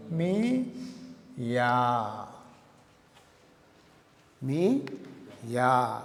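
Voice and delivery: "మీ", pause, then a low, drawn "యా"; syllable-by-syllable pronunciation. Shown as a demonstration. Teacher shows students how to pronounce it, syllable by syllable. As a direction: split it as "మీ ... యా", r turned to a vowel. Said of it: "ఎలా pronunciation చేస్తారు?".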